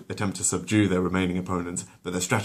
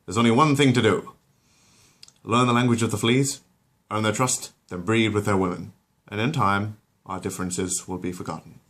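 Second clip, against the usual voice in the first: lightly voiced dopey Peter; 2 semitones higher than usual.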